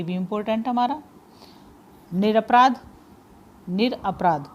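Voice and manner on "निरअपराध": निरअपराध said as निर and अपराध, parts kept apart; split into parts. Shown as a demonstration. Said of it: "विच्छेद करेंगे". (निर और अपराध अलग-अलग बोलकर)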